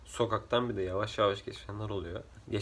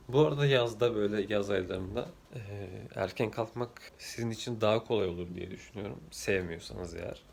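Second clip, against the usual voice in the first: hoarse morning voice. Real, not acted. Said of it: "sesimin de bozuk olduğuna bakmayın".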